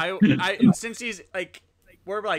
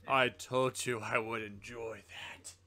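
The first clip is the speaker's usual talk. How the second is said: gloating line; 3 semitones lower, slower than usual. Pretend. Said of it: "stand over the ashes and say".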